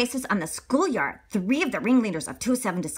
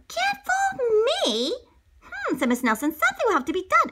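high determined teacher. Acted.

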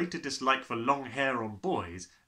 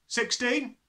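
carefree, high answer on "Sixteen"; foolish abandon; 12 semitones higher, 5 dB louder than usual. A narrator's reading. Small boy blurts a wrong answer, carefree and high. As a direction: toss off "Sixteen" cheerfully, not knowing the danger. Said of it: "answered with foolish abandon".

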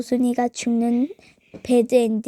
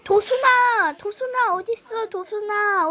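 high calling voice; 6 semitones higher than usual. Pretend. Calling out for friend.

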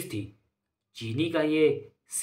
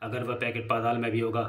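low-key, softly spoken gang boss; crime boss; 3 semitones lower, 6 dB quieter than usual. Acted. Drug boss briefing his gang about the lost sugar packet, quiet and controlled. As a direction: lower the voice a touch, quietly in command.

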